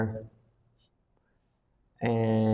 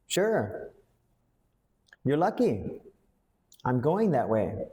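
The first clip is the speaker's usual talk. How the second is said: casual offer; 3 semitones higher than usual. Shown as a demonstration. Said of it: "You say, "Sure".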